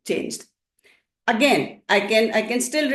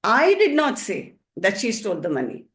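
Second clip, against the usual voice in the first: emphatic "I", then let the rest fall; stress on I. Shown as a demonstration. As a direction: lean on the first word "I". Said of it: "the stress is on I".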